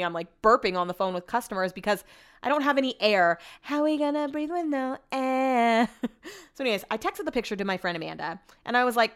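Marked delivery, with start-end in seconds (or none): 3.6-5.9 slow, whiny fake sob; hammed-up crying complaint; mock crying. Mock despair over hiccups.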